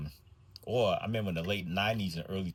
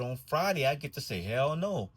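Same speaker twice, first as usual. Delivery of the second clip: put-on child voice; 6 semitones higher than usual. Child repeats line third time.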